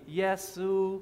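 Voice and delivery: Yesu said in Chinese, high level first tone; Chinese word. Shown as a demonstration. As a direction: say Yesu on one high flat tone. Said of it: "repeat after me".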